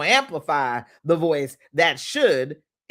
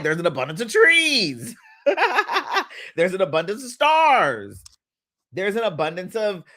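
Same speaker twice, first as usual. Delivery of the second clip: laughing. Real, not acted. Laughing through the examples.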